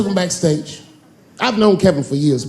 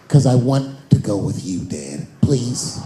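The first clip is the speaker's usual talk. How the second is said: put-on pleading kid; 4 semitones lower, slower than usual. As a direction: beg sweetly like a kid. Son begging dad.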